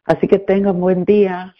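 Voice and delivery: Spanish with an American accent; effortful American-accented Spanish. Real, not acted. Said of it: "por mi español tan pateado".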